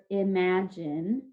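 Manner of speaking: IMAGINE said slowly, drawn out; sounded out. Shown as a demonstration. Teacher giving the class a spelling word, sounded out slowly. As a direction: stretch out each part of IMAGINE. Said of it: "so this word is".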